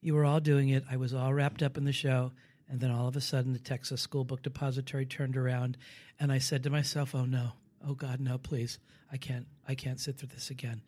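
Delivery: soft, low, growing fainter; sinking into quiet horror; a near whisper at the end; hushed dread. Retold or imitated. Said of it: "She's like".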